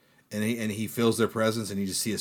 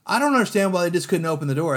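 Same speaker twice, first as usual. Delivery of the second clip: puzzled; 8 semitones higher, 6 dB louder than usual. Retold or imitated. Quoting a puzzled buddy.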